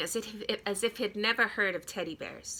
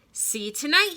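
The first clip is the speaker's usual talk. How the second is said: hurried Reggie; 6 semitones higher, 7 dB louder than usual. Acted. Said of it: "he said".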